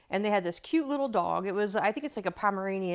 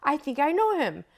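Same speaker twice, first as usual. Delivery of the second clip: excited quote; 8 semitones higher than usual. Retold or imitated. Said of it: "And she goes".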